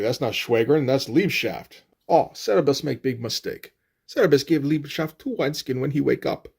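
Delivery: badly faked German accent with a whine; whiny German accent. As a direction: attempt a whiny German barbarian. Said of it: "I don't know how to do a German accent if it's not with that whiny voice".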